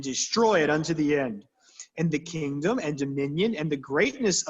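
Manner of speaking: put-on reading the old Bible out, steady and formal; a touch of solemn King James reading; scripture reading. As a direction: read it like a lectern reading. Reads scripture passage aloud.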